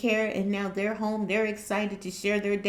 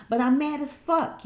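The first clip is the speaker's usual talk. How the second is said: angry; 5 semitones higher than usual. Retold or imitated. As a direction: hit it with real heat. Repeating the anger louder.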